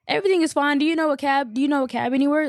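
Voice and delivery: high-pitched, mild mock yelling. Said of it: "Like, just yelling that".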